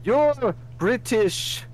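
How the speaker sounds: high, slow, drawn-out exclamation; loud, stretched mock astonishment; Anthony C. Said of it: "and he's like".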